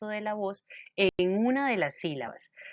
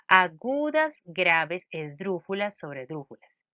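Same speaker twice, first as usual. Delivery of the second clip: memorised list recitation. Shown as a demonstration. Teacher sharing how they memorised the groups, reciting by rote. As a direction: recite "agudas, graves, esdrújulas, sobredrújulas" as a list stepping down. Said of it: "me los aprendí de memoria de esta forma".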